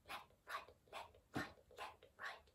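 unvoiced whisper fading away; fading march. A narrator's reading. Elephant marching off into the forest, fading. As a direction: let the march die off into the distance.

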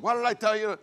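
high-pitched mock scolding; angry father. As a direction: imitate an exasperated dad's rebuke. Angry father confronting son.

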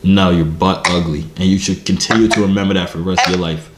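low, heavy macho voice; deep voice. Acted. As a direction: put on a deep manly voice. Deep voice while flirting on camera.

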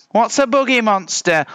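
high questioning character voice; high-pitched puzzled bear. A narrator's reading. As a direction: ask it high and baffled. Bear asks the littlest one.

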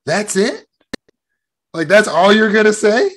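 put-on high-pitched kid's disbelief; incredulous five-year-old. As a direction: question it as a child who expected far worse. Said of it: "as a five-year-old, I was like".

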